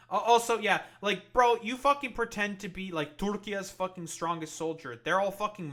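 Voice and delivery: yelling high and loud in disbelief; angry shout. Real, not acted. Streamer ranting at the politician's clip, angry shout. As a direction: blow up at him, loud and high.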